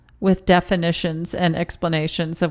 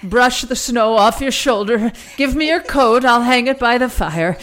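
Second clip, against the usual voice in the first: lightly put-on quaint old-timey host; welcoming guests like a pioneer wife; old-fashioned hostess voice; 3 semitones higher, 3 dB louder than usual. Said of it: "come in with a crazy voice".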